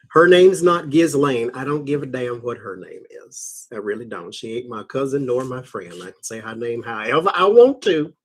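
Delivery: fussy rant. Real, not acted. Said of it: "Rant over".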